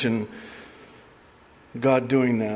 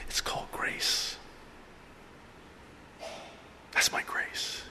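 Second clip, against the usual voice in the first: hushed voiceless whisper; soft voiceless answer from heaven; whispered God; 14 dB quieter than usual. Acted. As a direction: breathe it like a secret from God.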